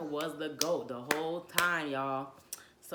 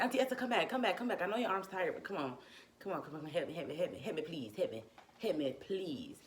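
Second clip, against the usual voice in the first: retold pleading. Begging aunt to rub back.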